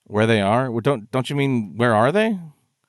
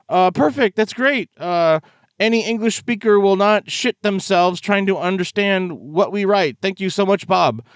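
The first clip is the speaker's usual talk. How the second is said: mock grateful developer; 3 semitones higher than usual.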